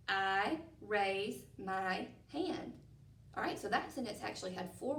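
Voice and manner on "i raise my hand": very slow I love school, each word apart. Shown as a demonstration. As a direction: count each word slowly. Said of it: "let's count those words together".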